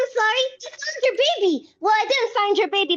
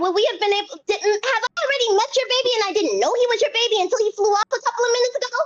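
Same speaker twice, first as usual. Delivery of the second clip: tumbling run-on questions, pitched up; eager, babbling string of questions; breathless rambling; 3 semitones higher than usual. Acted. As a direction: ramble on without stopping for breath. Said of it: "God damn, take a breath".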